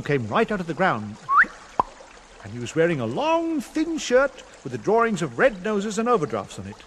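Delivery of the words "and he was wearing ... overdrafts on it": ordinary delivery, nothing marked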